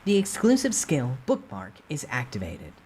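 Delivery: game system announcing the skill; system notification. Acted. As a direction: read it like a game interface.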